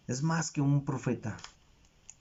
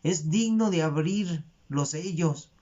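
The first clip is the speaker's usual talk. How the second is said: higher-pitched imitation of a tearful plea; retold weeping plea; 5 semitones higher, slower than usual. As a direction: cry out the question in mock lament, without real sobs. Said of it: "Juan lloraba y decía".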